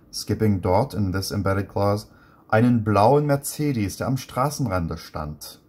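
rereading the German, pausing at each chunk; reading aloud, broken down. Shown as a demonstration. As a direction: read it in pieces to show the structure. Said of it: "So to interpret this sentence".

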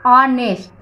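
"ऑनेस्ट" opening straight on the vowel; silent H demo. Shown as a demonstration. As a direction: sound out "ऑनेस्ट" without any h. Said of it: "pronunciation क्या है". ("ऑनेस्ट" बिना ह के बोलना)

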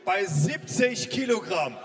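slow, drawn-out fighter intro; boxing ring announcer. Real, not acted.

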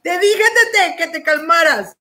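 high, laughing protest; fighting laughter. Real, not acted. Host begging friend to calm down, fighting laughter. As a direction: scold a friend while cracking up. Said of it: "no me iba a reír".

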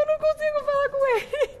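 high, tearful wail reliving the panic; crying, broken pleading; retold crying. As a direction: sob the words out high and loud as if back in that moment. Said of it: "Aí eu atendi chorando".

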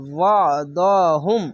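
thick, constricted ayn between "ওয়া" and "দ"; throaty ayn. Shown as a demonstration. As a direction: squeeze the throat after "ওয়া". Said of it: "গলা চিপে এবং মোটা করে".

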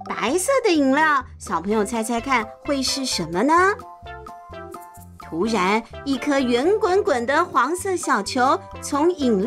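playful storytime narration; reading to a toddler. A narrator's reading. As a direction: read it to little kids. Narrator reads to children.

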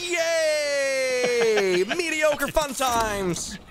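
half-hearted mock cheer; deadpan fake excitement; fake excited scream. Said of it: "Scream as well, like you're having a good time".

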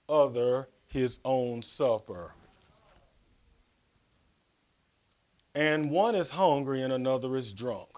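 measured Bible reading with weighty pauses; scripture reading. Real, not acted. Preacher reading Corinthians to the congregation, measured scripture reading. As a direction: read scripture out deliberately, phrase by phrase.

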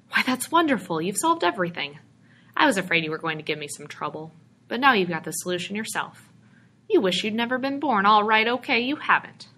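a salesman thrilled at an easy sale; excited. Acted. Stranger delights in George's wish, excited. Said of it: "glowed with excitement".

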